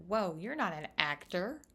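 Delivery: playfully baffled, climbing up high; startled, high-pitched disbelief; mock surprise. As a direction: voice jumps high on how are you and why are you here. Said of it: "I said".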